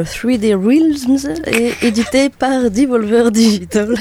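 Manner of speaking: put-on slow, deliberate English accent on the names. Radio host showing off English accent on game names. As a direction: say the studio names like an English speaker. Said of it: "Tu aimes bien mon accent anglais".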